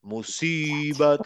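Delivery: মুসিবত said slowly with lips rounded on the স; round-mouthed musibat. Shown as a demonstration. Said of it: "মুখটা গোল লাগবে".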